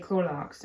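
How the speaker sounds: Clorox with an extra L, "Clor-lox"; grandparents' pronunciation. Retold or imitated. Showing how Granny and Pap said "Clorox", as "Clor-lox". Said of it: "Granny and Pap both would say Clorox".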